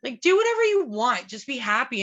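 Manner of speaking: imitating mom brushing it off, exasperated; mom's emphatic outburst. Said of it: "she's like".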